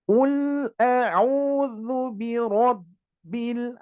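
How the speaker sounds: very slow chanted "biro" with a thick r; drawn-out tajwid recitation; slow recitation, heavy ro. Shown as a demonstration. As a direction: recite slowly with a full, heavy ro.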